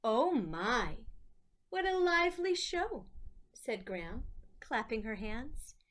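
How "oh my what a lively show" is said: louder, higher delighted exclamation. Acted. Graham praises Lucy's dancing, loud and delighted. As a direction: cheer the dancer on.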